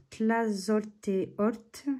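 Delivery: Tlazolteotl spelled out slowly, syllable by syllable, rising at the end; a slow, unsure stab at Tlazolteotl; careful pronunciation. Real, not acted. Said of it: "Excusez-moi pour la prononciation". (Tlazolteotl, articulé très lentement, syllabe par syllabe)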